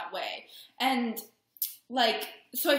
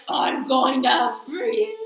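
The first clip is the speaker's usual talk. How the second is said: mock freak-out; 3 semitones higher, 11 dB louder, much slower than usual. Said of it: "so you're like".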